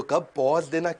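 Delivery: पॉज stretched out with a little hold; pause on पॉज. Shown as a demonstration. Coach teaches when to pause, drawing out पॉज. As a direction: linger on पॉज before moving on. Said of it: "अब मैंने दे दिया पॉज".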